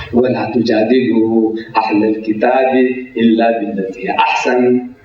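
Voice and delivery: quick recited Arabic verse; quick Quranic recitation. Acted. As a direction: rattle off the verse in a chanting cadence.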